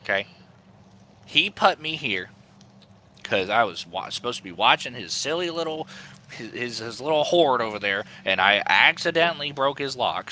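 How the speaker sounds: nervous goblin plotting against his boss. Acted. DM voicing goblin Snigbats Junior.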